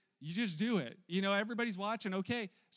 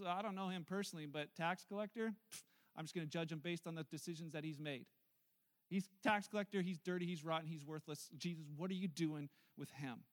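softer, lower scornful sneer; scornful onlooker writing off the tax collector; judgmental; 4 semitones lower, 4 dB quieter than usual. Acted. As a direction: look down your nose and dismiss him. Judgmental crowd voiced.

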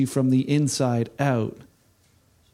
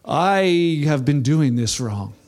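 mock realization; 3 dB louder, slower than usual. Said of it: "where you're like".

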